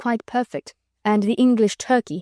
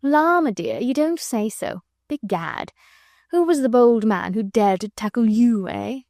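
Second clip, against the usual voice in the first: placid; 2 semitones higher than usual. Acted. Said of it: "he rejoined placidly".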